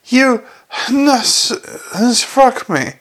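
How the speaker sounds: high-pitched, halting indignation; outraged stammer. A narrator's reading. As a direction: stammer it out, outraged at being hit. Outraged man just hit on nose.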